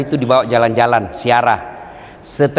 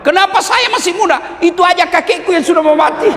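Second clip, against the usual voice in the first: put-on much higher, cheeky young voice; cheeky child voice. A modern kid talking back to his father, in a high cheeky voice. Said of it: "pasti dia jawab".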